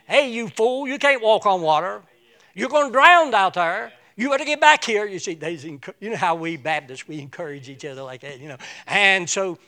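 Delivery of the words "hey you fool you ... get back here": high, loud jeering call from the boat; mocking shout. Disciples shouting at Peter on the water, loud jeering call. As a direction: yell at him to come back, half teasing. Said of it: "they was encouraging him".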